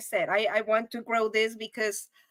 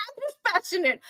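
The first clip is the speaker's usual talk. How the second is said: laughing; 7 semitones higher, faster than usual. Real, not acted. Laughing at own slip.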